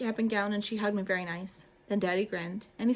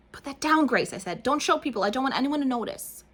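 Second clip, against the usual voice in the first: lightly raised, pleading voice; embarrassed girl; 5 semitones higher, 5 dB louder than usual. A narrator's reading. Junie begging Grace to hide her gown, a little higher. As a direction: beg her to stop showing it.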